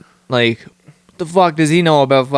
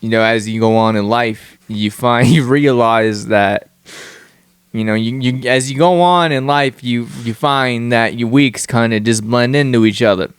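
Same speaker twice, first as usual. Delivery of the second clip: put-on East Coast accent; 2 semitones lower than usual. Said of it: "every time you throw on that accent".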